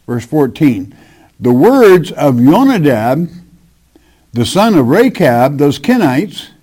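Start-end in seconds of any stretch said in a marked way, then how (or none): 1.4-5.6 measured, solemn Bible reading; scripture reading. Acted. Preacher reads Jeremiah to his congregation, solemn scripture reading. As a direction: read the verse out to the congregation.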